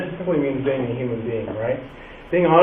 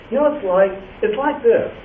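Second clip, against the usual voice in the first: teacher's hook; 5 semitones higher than usual. Shown as a demonstration. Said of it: "stand there in front of kids and say".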